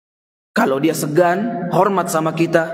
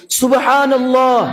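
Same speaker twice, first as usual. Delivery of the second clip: high, loud, slow cry of shock; shocked shout; 7 semitones higher, 5 dB louder, slower than usual. Retold or imitated. Mother discovering sand in the cakes, shocked shout. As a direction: cry out at the ruined food. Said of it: "orang tuanya langsung teriak".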